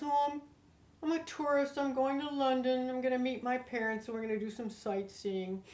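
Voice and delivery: casual recital, falling away at the end; matched tone level. Retold or imitated. Traveler answering a grumpy customs guy, matching his tone. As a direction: imitate offhand answers matched to a grumpy official. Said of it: "I matched his tone level".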